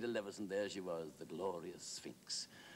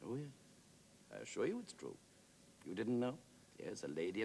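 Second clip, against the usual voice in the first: lightly voiced measured, courteous wit; a touch of kindly condescension; urbane Wilde. Plays Wilde answering his admirer.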